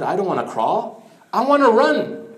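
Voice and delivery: a companion begging not to crawl, then crying out; eager plea. Retold or imitated. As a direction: burst out with longing to run. Companion pleads to the Prophet.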